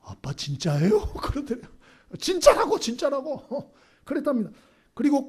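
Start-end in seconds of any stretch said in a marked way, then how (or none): 0.0-1.1 imitating an astonished son, slow; playfully acted incredulous child; wide-eyed disbelief. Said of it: "애가 눈이 커지더니". 2.2-3.7 high-pitched retold assurance, loud then easing; playfully acted exasperated confirmation; emphatic insistence. Retold father insists to doubting son.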